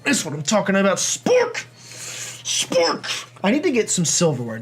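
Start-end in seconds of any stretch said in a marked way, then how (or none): 1.0-1.7 much higher cheer of the name; excited cheer. Real, not acted. Cheering his Pokemon. 2.4-3.3 unvoiced whisper of Spork; whispered echo. Real, not acted. Repeating the name quietly.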